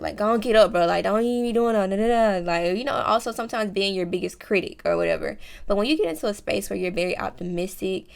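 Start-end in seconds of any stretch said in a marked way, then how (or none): 0.2-2.4 a hint of a pushy coach, louder; gruff pep talk, rushing; tough self-talk. Hyping herself up like a bro, louder. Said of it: "how I motivate myself".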